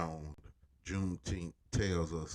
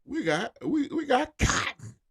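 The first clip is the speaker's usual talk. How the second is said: higher, rising defiant Southern planter; Southerner voice; 6 semitones higher, 4 dB louder than usual. Retold or imitated. Voicing the South defying the North, rising and louder. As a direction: act the proud South, getting higher and louder. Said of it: "You was like".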